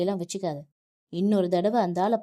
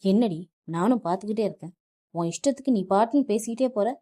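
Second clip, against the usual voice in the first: louder, fast, raging husband; husband yelling at his wife about her father; furious shouting; 2 semitones higher, 6 dB louder than usual. Acted. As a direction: explode at her and rush the words. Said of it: "ஆக்ரோஷமாக அவளை பார்த்து கத்தினான்".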